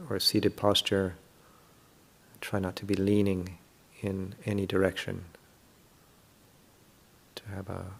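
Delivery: calm, unhurried meditation guidance with long pauses; guided meditation. Real, not acted. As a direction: gently guide listeners through settling the body.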